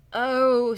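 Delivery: loud acted groan; pained storybook groan. A narrator's reading. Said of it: "someone groans".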